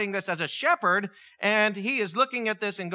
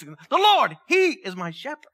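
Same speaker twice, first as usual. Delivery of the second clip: louder, higher ringing declaration; triumphant proclamation; 5 semitones higher, 5 dB louder than usual. Retold or imitated. David in the wilderness crying out his faith, loud and high. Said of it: "I could just picture David standing out in the wilderness".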